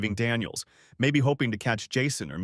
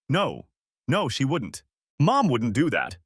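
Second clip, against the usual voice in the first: mock shouting denial; 3 semitones higher, 4 dB louder than usual. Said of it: "He was shouting".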